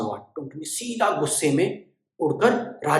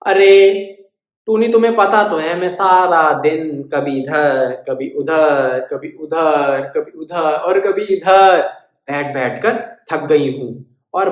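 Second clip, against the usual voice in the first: put-on weary old cow; 5 dB louder than usual. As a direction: complain of being worn out. Tired cow refusing.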